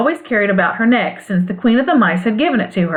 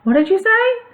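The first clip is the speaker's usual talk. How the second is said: Scarecrow voice; 13 semitones higher than usual. A narrator's reading. Scarecrow puzzled by the charm.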